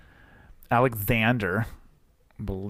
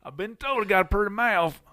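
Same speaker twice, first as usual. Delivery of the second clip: hick caller voice; 8 semitones higher than usual. Acted. Caller bit continues.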